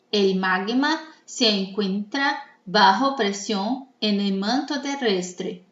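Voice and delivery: slow, careful reading of an exercise; slow dictation. Shown as a demonstration. Teacher reads a sentence for students to mark, slow dictation. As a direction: dictate it slowly for the class. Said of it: "Vocês vão me escutar".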